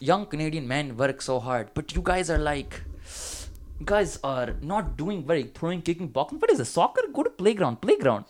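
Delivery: mock South Asian boss scolding the boys; mock brown accent. Owner scolding lazy young workers, in a mock South Asian accent. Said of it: "I'm just gonna do a brown accent".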